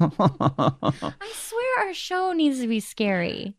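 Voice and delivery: said through a slow laugh. Real, not acted. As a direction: laugh while you say it. Laughing remark to co-host.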